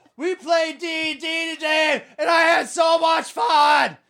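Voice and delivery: very slow, very high, drawn-out excited yell. Retelling how the listener shouted a story at the table: imitating someone yelling. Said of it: "You don't have to yell".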